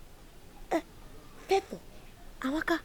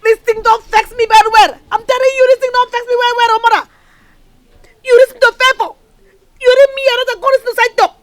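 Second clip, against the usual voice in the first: louder, heated accusation; angry outburst; 3 semitones higher, 6 dB louder than usual. Acted. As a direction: blurt out the blame in anger. Daughter furious at friend.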